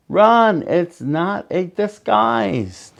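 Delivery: high panicked yell. A narrator's reading. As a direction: shout it in panic. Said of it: "the children yelled".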